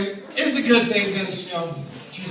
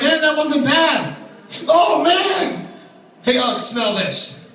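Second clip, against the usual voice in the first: caveman delight; 6 semitones higher, much slower than usual. Acted. Caveman after first anal sex.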